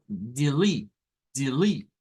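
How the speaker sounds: delete, said as di-LIT; teacher modelling delete; model word. Shown as a demonstration. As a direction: repeat delete as a clear model. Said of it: "Luego tenemos del".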